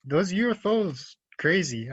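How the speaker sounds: slow, drawn-out filler; stalling. Acted. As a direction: stretch it out while you think. Stalling to fill dead air.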